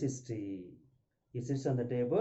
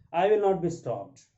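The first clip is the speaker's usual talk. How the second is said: raised, loud refusal; defiant; 4 semitones higher, 5 dB louder than usual. Acted. Daughter refuses to be hushed, defiant. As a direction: push it out firmly, higher and louder. Mrs Jordan refuses to be silenced.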